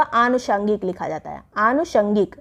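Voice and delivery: आनुषंगिक with long first 'aa'; correct long vowel. Shown as a demonstration. Teacher giving correct form, long 'aa' starting आनुषंगिक. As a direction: stretch the opening of आनुषंगिक. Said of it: "बड़ा आ रहेगा".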